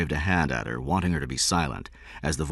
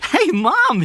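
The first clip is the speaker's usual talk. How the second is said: put-on high, loud startled boy; child taken aback by mother's hug; surprised; 8 dB louder than usual. A narrator's reading. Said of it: "he said, surprised".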